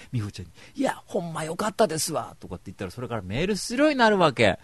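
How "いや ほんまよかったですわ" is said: higher, overfamiliar Kansai voice; chummy Kansai flattery; mock Kansai, pitched up; Kansai dialect. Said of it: "いきなり関西弁で".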